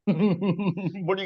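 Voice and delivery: high, slow, through laughter; laughing. Real, not acted. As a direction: laugh while asking. Laughing at the clip.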